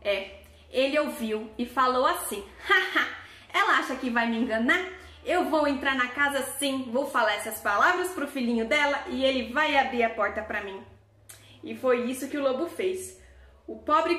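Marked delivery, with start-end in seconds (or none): 2.7-10.8 sly wolf gloating over his trick, with a short mock laugh; storybook wolf sneering at the mother's plan; scheming wolf. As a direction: chuckle and plot like a storybook villain.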